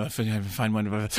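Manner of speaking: low, slow sinister connoisseur with a slurp; mock movie-villain relish, slow and low; Hannibal Lecter. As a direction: draw it out low, then slurp greedily. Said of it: "when he goes all Hannibal Lecter".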